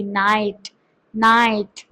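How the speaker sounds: नाइट said low and slow, then repeated; careful pronunciation. Shown as a demonstration. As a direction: spell it then say नाइट slowly. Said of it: "pronunciation क्या होता है नाइट का".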